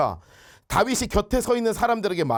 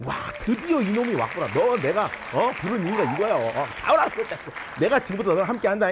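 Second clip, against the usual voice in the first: voicing God. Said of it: "이러면서 이제 하나님 막".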